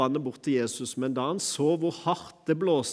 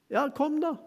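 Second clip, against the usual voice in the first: Ja, kom da lifted much higher, gently calling; Jesus inviting; 12 semitones higher than usual. Acted. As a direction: call Peter out onto the water. Jesus voiced inviting Peter. (Jesus som lokker Peter ut på vannet, lyst og mildt)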